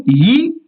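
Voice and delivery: yi held apart, followed by a pause; stop after syllable. Shown as a demonstration. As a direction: say yi, then stop. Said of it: "et vous faites un arrêt".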